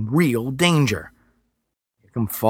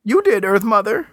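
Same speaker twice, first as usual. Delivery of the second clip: higher, whimpering reply; 10 semitones higher, 4 dB louder than usual. Acted. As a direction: answer meekly, near tears. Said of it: "he whimpered".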